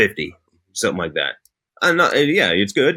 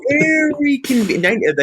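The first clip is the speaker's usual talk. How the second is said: sarcastic; 14 semitones higher, slower than usual. Real, not acted. Sarcastic agreement about convenient exile.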